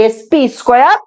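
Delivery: "এসপি স্কয়ার" read with the exponent as "square"; reading not to use. Shown as a demonstration. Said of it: "বলবো না". ("এসপি স্কয়ার", ভুল পড়ার উদাহরণ)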